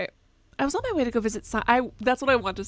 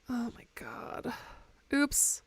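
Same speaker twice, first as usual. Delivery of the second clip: whisper; 9 dB quieter, much slower than usual. Real, not acted. Dismayed at game mistake.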